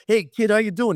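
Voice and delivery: high-pitched, playful hello; retold boisterous greeting. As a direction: imitate a star roughhousing with a rookie. Mantle punches rookie playfully, laughing.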